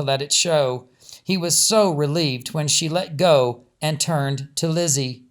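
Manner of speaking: steady storyteller reading a novel aloud; story narration. A narrator's reading. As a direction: tell it evenly, like reading a chapter to listeners.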